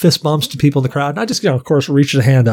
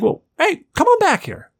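imitating the singer. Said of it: "he's like".

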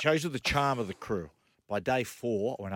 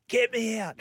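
retold scream; 9 semitones higher than usual. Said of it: "starts screaming".

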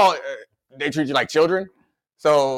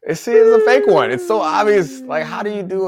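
excited; 7 semitones higher, 5 dB louder than usual. Real, not acted. Mocking a fake yawn.

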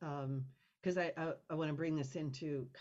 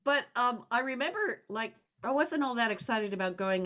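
laughing; 7 semitones higher, 5 dB louder than usual. Real, not acted. Still laughing after joke.

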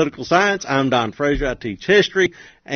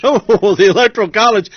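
laughing, higher, louder mock dread; 5 semitones higher, 5 dB louder than usual. Mock awe at dreaded topic.

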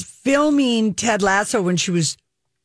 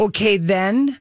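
put-on Minnesota accent; 2 semitones higher, slower than usual. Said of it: "they say".

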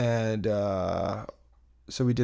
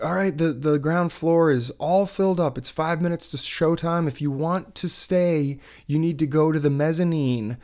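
raised, projected usher voice; staff announcement; 5 semitones higher than usual. Retold or imitated. Theater staff sending latecomers to the mezzanine, imitated announcement. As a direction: announce it to a waiting crowd.

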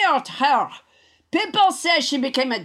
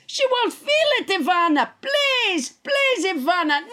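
pleading, higher pitched please; 4 semitones higher than usual. Acted. French Trump begging Ivana to aim the blowtorch, higher pleading. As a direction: beg her, voice climbing on please.

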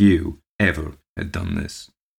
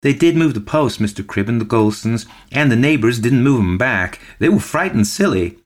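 high, timid woman's voice; shy woman; 6 semitones higher, 5 dB louder than usual. A narrator's reading. Storekeeper's wife crosses the shop to back the tale, shy. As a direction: pipe up shyly, pitched well above normal. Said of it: "to say in her shy voice".

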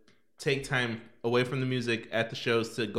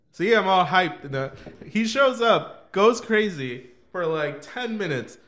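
excited laughing; 3 semitones higher, 5 dB louder than usual. Real, not acted. Hyped retelling of concert chaos.

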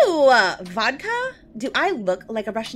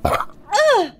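disgusted; 10 semitones higher, much slower than usual. Acted. Drinking vodka straight from bottle.

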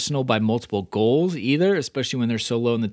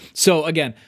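fresh, higher, louder restart; hard reset; 5 semitones higher, 4 dB louder than usual. Shown as a demonstration. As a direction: start over bright and punchy. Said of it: "clearly a hard reset in intonation and voice inflection".

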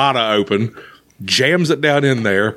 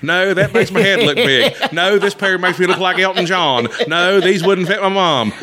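higher-voiced customer judging sunglasses; picky shopper's running commentary; 5 semitones higher than usual. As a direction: lightly imitate a man critiquing himself aloud. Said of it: "he was doing commentary".

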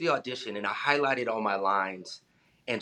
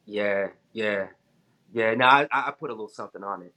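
full confidence; 4 semitones lower than usual. Retold or imitated. Actor proudly answers casting director about the accent, full confidence. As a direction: say it as if sure it's a compliment. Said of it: "I said with full confidence".

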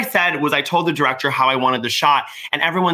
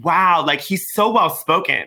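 patronizing praise; slower than usual. Retold or imitated. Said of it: "people ... would be like".

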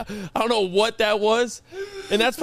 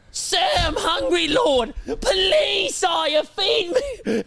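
whiny pet voice; 11 semitones higher, much slower than usual. Pretend. Pet begging owner for food, high whiny plea. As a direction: plead like a starving little pet to its master. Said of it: "I'd probably be like".

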